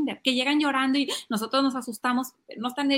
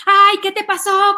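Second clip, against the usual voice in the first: loud, high panicked mom act; reactive alarm; 9 semitones higher, 10 dB louder than usual. Acted. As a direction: overreact like a frantic mother. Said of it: "¿Eres reactivo?". (alarma exagerada de mamá, aguda y fuerte)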